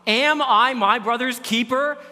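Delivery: AM stretched, slow and defiant; defiant Cain, slowed. Acted. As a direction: drag out Cain's cold retort, stressing AM. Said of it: "the response".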